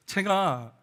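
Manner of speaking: normal talking voice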